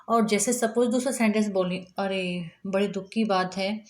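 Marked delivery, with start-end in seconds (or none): 2.0-3.8 a touch of sadness, slightly subdued; softer, understated regret; mild sorrow. Shown as a demonstration. Teacher demonstrates reacting to sad news, mildly sorrowful. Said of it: "या आप दुख की बात में करो".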